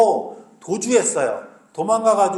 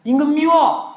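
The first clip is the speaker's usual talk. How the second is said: put-on high, sulky childish pout; childish whine; 8 semitones higher, 4 dB louder than usual. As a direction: whine it like a kid. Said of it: "이렇게 얘기하는 거라고요". (토라진 아이처럼 징징대며)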